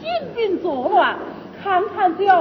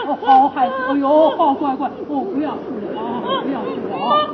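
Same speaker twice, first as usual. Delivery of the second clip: put-on lower, gentle hushing of a child; calm the crying child; soothing; 4 semitones lower than usual. (温柔地哄孩子别哭)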